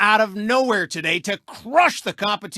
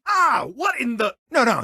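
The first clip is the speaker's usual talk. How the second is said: 1 startled. Acted. Startled on air.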